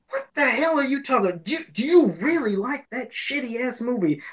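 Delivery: a lightly voiced scoffing friend; mock incredulous Tyler. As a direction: play Tyler as baffled and disgusted. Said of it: "him being like".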